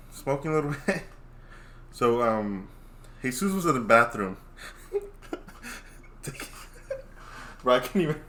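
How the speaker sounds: laughing through the story; can barely get words out for laughing; cracking up. Real, not acted. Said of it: "Can't tell a story without cracking up".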